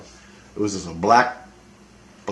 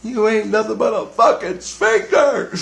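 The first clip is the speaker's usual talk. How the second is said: much higher, punching fucking; 11 semitones higher than usual. Retold or imitated. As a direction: yell the insult, hitting fucking hard. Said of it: "I go".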